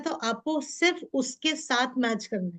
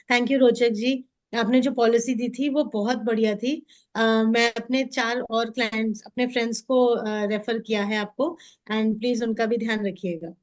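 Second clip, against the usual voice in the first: gentle, slightly lowered thanks; soft tonality; 3 semitones lower than usual. Shown as a demonstration. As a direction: speak softly to match the customer. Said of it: "मैं इनसे soft तरीके से बात". (नरम, विनम्र लहजे में)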